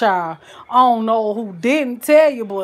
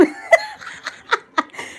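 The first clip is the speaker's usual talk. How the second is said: very high, airy real laugh; delighted laugh; 3 dB quieter than usual. Real, not acted. Cook delighted with her own dishes, delighted high laugh. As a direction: squeal with breathy laughter.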